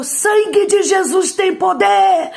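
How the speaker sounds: high, drawn-out religious cry; horrified mother crying out, relived in full voice; mother's shout. Retold or imitated. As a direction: shout it loud and slow, invoking Jesus. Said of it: "minha mãe gritou".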